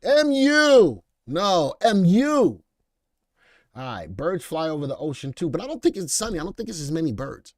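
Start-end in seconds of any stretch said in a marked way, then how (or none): 0.0-2.6 loud, high call across the room; loud call, slower the second time. Real, not acted. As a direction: shout the name to get attention. Calling out a name loudly.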